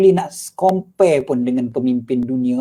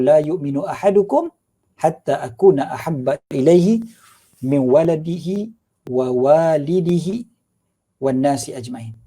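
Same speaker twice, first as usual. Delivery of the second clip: Arabic hadith recitation. Acted. Preacher quotes the Prophet's hadith to listeners, measured recitation.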